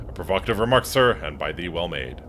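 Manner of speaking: lightly voiced Shakespearean host, mock formal; a hint of a stage Elizabethan butler, grandly polite; mock archaic manners to his dinosaur lodger; archaic old-fashioned speech. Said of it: "When did you start talking like this?".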